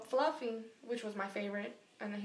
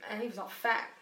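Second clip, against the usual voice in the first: whispering; breathy aside; whispered aside. Real, not acted.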